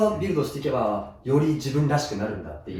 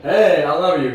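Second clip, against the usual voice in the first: mock English line; 7 dB louder, much slower than usual. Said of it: "みたいな感じで".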